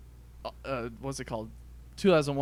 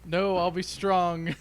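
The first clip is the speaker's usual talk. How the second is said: mock resolve; 5 semitones higher, 4 dB louder, much slower than usual. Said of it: "but I'm like".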